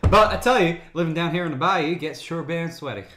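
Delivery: lightly played Southern bayou accent; a touch of Southern twang. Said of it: "I'm not from the South".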